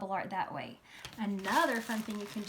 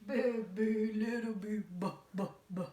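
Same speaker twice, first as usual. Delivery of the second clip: grandpa voice. Shown as a demonstration. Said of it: "Grandpa voice".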